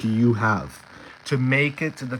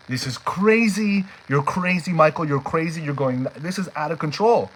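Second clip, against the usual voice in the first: higher-pitched, exasperated self-scolding; agitated inner voice; 4 semitones higher than usual. Retold or imitated. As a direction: berate yourself as your own panicky doubts. Inner doubts scolding himself.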